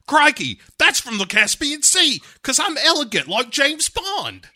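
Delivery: very high, hammed-up character voice; Bond. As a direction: exclaim it as a cartoon show-off. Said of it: "and is like".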